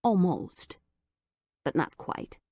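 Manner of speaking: usual speaking voice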